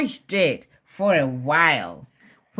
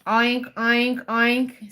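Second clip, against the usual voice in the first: pig oinks; 3 semitones higher, slower than usual. Shown as a demonstration. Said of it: "Say it".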